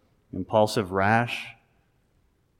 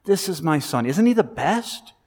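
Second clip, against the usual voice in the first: higher, beaming proud father voice; a father bragging about his boy, lightly voiced; 5 semitones higher than usual. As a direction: show off your son with delight. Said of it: "how God the Father starts telling people about Jesus".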